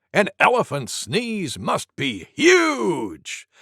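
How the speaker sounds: slow, shouted huge; Wild Boar. Acted. Wild Boar insists, stretching out huge. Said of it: "said Wild Boar".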